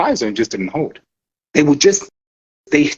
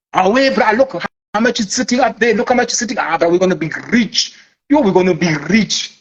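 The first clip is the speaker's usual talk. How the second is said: mock giddy hustler, a bit higher; hammed-up greedy excitement; excited trader; 3 semitones higher than usual. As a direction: gloat over the money up there. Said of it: "I think they talk like that".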